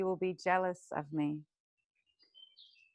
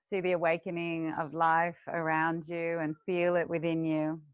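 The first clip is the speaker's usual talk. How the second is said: guided meditation. Acted. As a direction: lead the class gently into the breath. Teacher leads breathing meditation.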